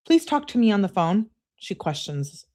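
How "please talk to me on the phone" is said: higher acted begging; mock-needy girlfriend plea; pleading. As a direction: plead for a phone call. Acts out the plea.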